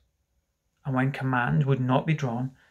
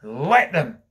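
loud, reckless defiance; 6 dB louder than usual. Acted. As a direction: toss it out defiantly. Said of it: "he answered recklessly".

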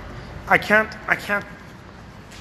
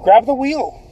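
rallying cry; 7 semitones higher than usual. Real, not acted. Urging viewers to take control.

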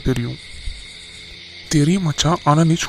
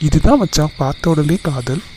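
excited; 2 semitones higher, 5 dB louder than usual. Acted. Friend excited about love.

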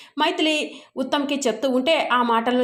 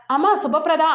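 mild shout; 4 semitones higher than usual. Acted. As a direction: cry out the name in alarm. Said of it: "గట్టిగా అరుస్తాడు".

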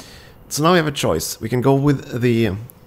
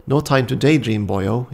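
put-on Welsh accent; 3 dB louder than usual. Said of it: "in a lilting Welsh accent".

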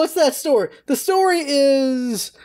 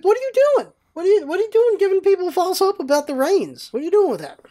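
high-pitched incredulous protest; exasperated scolding; 8 semitones higher than usual. Acted. Scolding people giving false hope, high and exasperated. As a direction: demand answers in rising disbelief.

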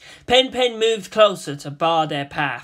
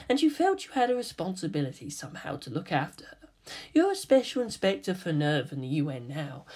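soft unvoiced threat; whispering secrets to the spy; menacing whisper; 5 dB quieter than usual. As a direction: whisper his secrets at him. Teen coldly reveals Kaji's secrets.

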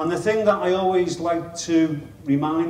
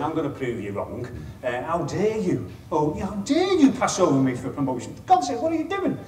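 mock indignation; 3 semitones higher than usual. To bosses who passed him over, a hammed-up indignant outburst.

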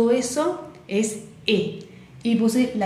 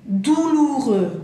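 "Douloureux" slow, at raised pitch; slow French model; 4 semitones higher, 3 dB louder, much slower than usual. Shown as a demonstration. Teacher introducing a hard word, slow and raised. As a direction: draw out "Douloureux" a bit high.

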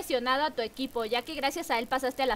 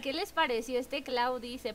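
softer, restrained question; lowered, self-conscious voice; toned-down repeat; 3 semitones lower, 6 dB quieter than usual. Real, not acted. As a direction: rein it in, remembering others can hear. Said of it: "no me acordé que estaba en llamada".

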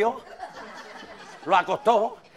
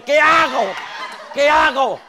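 louder, higher panicked asking; desperate cry; 5 semitones higher, 6 dB louder, slower than usual. Acted. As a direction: plead in panic. Desperate man. (grito desesperado)

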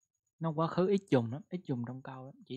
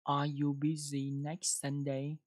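slow model question; slower than usual. Shown as a demonstration. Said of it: "đọc một câu nào".

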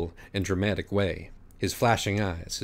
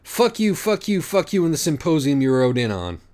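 defiant cursing; 4 semitones higher than usual. Acted. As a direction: spit it at them. Acorn curses the judges.

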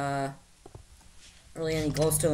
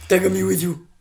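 pleading whine; 6 dB louder than usual. Acted.

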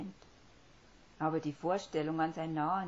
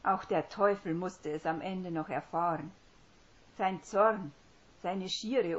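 satisfaction; 5 dB louder than usual. Acted. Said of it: "machte Genugtuung Platz".

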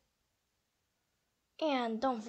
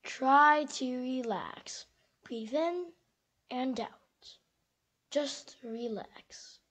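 calm whisper; slower than usual. Acted. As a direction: soothe yourself, breathing slowly. Squirrel calming self, breathing.

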